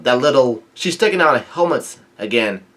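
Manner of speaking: mild mock yell, pitch lifting midway; half-act a soldier's outcry; retold yell. Soldier complaining about the little rabbit, mild retold yell. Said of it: "yell out".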